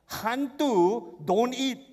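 slow, deliberate, each word weighed; slow realization. Acted. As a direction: draw out the thought slowly. Disciples' slow inner realization.

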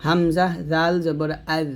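আদ ending in a thin voiced th, no bounce; thin Dhal. Shown as a demonstration. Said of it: "দালটা পাতলা করে উচ্চারণ".

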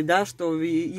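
ordinary delivery

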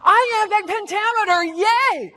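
exaggerated, loud, high cheer; sarcastic hooray, projected with glee; mock excitement. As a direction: cheer it like a fake fan. Mock cheer nobody ever says.

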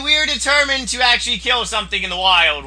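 usual speaking voice

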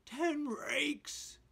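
high, loud dog-speak cry, r on every word; Scooby-Doo voice. A narrator's reading. Scooby points out the snake count, high dog cry. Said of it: "cried Scooby".

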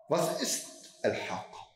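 Al-Haqqa drawn out slowly as a recited question. Shown as a demonstration. Teacher reciting the verse question slowly. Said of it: "eine rhetorische Frage".

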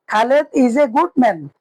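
slow English, each word drawn out; very slow model. Shown as a demonstration. Teacher slowly models the English sentence for students. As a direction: lay it out slowly for learners. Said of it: "ইংরেজি হবে".

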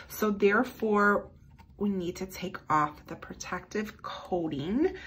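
ordinary delivery

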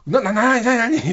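high, stammered acted questioning; flustered eager prompting, retold. Comedian turning the mic to the boy, acted eager stammer. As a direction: jump on it, stuttering the question.

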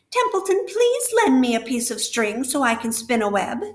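the rat mocks every request made of him; disgust. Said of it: "he said in disgust".

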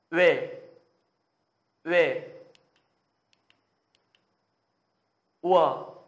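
loud, forceful vowel drill; full breath. Shown as a demonstration. Teacher models vowels for Korean learners, at full breath. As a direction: push each syllable out on a big breath. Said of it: "đừng tiết kiệm sức của mình quá".

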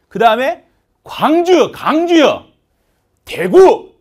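loud, high Jeolla-dialect call of the city names; Gwangju dialect. Shown as a demonstration. Teacher imitating regional dialect for students, loud Gwangju dialect. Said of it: "지금 제가 광주 사투리 맞나요?".

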